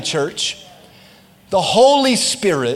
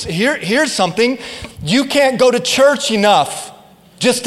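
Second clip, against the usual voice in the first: raised, insistent preacher's delivery; emphatic preaching; 3 semitones higher than usual. Real, not acted. Preacher telling church salvation cannot be earned, emphatic preaching. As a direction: drive each point home to the congregation.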